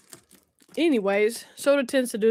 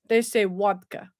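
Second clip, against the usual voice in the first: Russian accent; 3 semitones lower than usual. Shown as a demonstration. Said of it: "I've gotta do my Russian accent".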